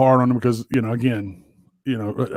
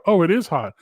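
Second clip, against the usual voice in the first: exasperated yell; 8 semitones higher than usual. Retold or imitated. Father scolding son who grabbed the hot thing, pitched high. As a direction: go way up, fed up with him.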